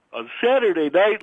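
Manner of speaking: words stretched by a yawn. Real, not acted. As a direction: say it mid-yawn. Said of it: "Listen to me yawning".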